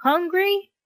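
high, rising, amused question; amused query. Acted. Bulldog mistakes hungry for a name, asking in amusement. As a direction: echo it as a funny surprise. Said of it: "Pear laughs".

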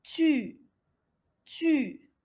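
"tu" with a held French u; syllable demonstration. Shown as a demonstration. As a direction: model "tu" as one syllable. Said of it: "نتحصل على".

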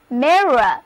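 mirror said slowly and clearly for copying; model pronunciation. Shown as a demonstration. Teacher modelling mirror for her class, slow and clear. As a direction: lay out mirror clearly, one syllable at a time. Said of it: "read after me".

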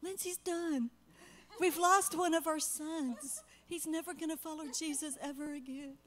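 high, loud, panicked wail of loss; retold distraught crying. Mother calling husband in Africa, distraught about her son. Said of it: "And I'm crying".

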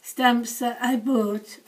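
hoarse, fading voice; losing voice. Real, not acted. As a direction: speak with a voice that's going. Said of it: "Sorry, I'm losing my voice now".

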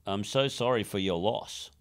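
dry sarcastic sympathy. Shown as a demonstration. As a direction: say it like you don't mean it.

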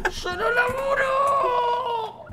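very high, drawn-out wail; hammed-up high scream; mock screaming refusal. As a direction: shriek it slowly in comic fury. Old teacher screams refusal.

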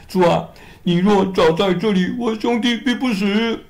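a touch of mild sorrow; grieving Mary. Acted. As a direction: plead as the weeping sister. Mary voiced high, weeping.

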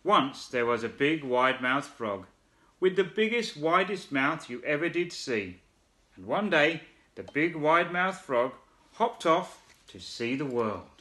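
put-on lively children's story narration; storytelling voice. A narrator's reading. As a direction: read it like a bedtime picture book.

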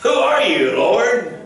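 high, loud, startled cry to the sky; shouted question. Retold or imitated. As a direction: shout it up at a voice from heaven. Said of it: "I love that part where he says".

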